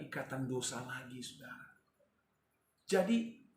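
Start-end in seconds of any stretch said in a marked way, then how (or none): 2.9-3.4 loud, high "Jadi" to turn the point; preacher's loud pivot word; emphatic loud "Jadi". Real, not acted. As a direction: call out "Jadi" to the congregation.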